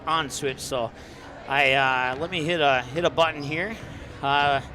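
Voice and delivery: out of breath, panting between words; winded after running to plug in. Real, not acted. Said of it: "sorry, I'm catching my breath here".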